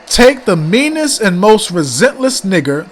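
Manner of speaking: dramatic reading aloud. Shown as a demonstration. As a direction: read each line out like an indictment. Reads the letter aloud.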